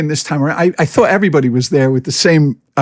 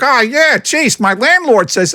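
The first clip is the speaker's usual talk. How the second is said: mock casual excuse; 9 semitones higher, 3 dB louder, slower than usual. Mimicking the guy's excuse.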